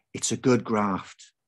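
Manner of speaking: slow, lulling mother's voice; soothing motherly. Acted. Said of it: "like a mother trying to send a baby to sleep".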